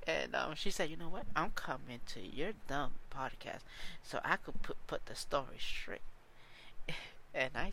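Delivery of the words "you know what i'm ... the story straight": imitating an ex's defiant comeback; attitude. Podcaster quotes ex agreeing to join the podcast, with attitude. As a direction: mimic her feisty announcement with emphatic punch. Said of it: "with an attitude".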